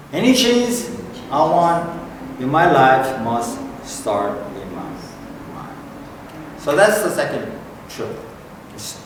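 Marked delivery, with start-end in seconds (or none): 0.1-5.8 repeating the line slowly. Shown as a demonstration. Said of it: "So let's repeat after me".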